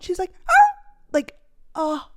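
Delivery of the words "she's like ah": imitated yelp. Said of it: "she yelped so loud".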